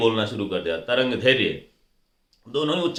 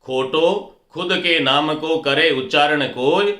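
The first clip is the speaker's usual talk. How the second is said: couplet recitation; slower than usual. Shown as a demonstration. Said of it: "मैंने राजस्थानी में एक दोहा लिखा".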